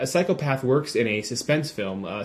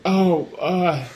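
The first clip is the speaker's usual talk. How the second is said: mock Southern accent; 7 semitones higher, 4 dB louder than usual. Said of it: "He's like".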